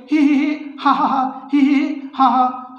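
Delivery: a touch of a put-on giggle; daughter-in-law still laughing at questions. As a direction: spell out a light ha ha. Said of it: "हंसने लगते हैं".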